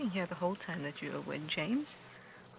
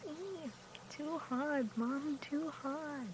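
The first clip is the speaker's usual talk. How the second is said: high, soft coo; slow, high murmur of sympathy; 7 semitones higher, 7 dB quieter, slower than usual. Real, not acted. Cooing over cubs being licked.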